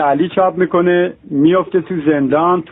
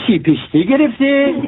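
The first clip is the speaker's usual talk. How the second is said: disbelieving question; 7 semitones higher than usual. Acted. Father asks in disbelief.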